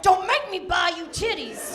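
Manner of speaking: lightly voiced tough-guy growl; a hint of Mister T menace. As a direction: threaten like Mister T. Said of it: "made him sound like Mister T".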